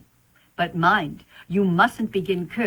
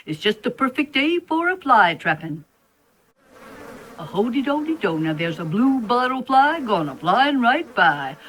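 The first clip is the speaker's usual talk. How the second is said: sing-song spider; 3 semitones higher than usual. Acted. Spider sings his fly-trapping tune.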